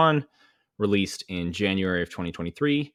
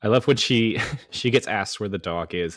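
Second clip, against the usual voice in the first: ordinary delivery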